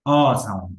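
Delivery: অ said as a short open vowel. Shown as a demonstration. Teacher showing learners the short vowel, short অ. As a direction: keep অ short, one quick beat. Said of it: "ছোট".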